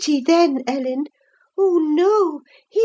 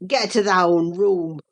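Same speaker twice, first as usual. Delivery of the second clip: low, gruff, furious voice; low furious young man; passionate Earnshaw; 10 semitones lower than usual. A narrator's reading. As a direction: growl it out in rage. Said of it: "in a voice almost inarticulate with passion".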